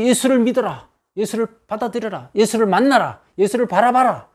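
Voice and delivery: high, urging commands; challenging exhortation. Acted. Preacher urges the convicted crowd toward Jesus, challenging exhortation. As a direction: press each command on the listeners. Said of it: "복음을 제시하면서 도전합니다".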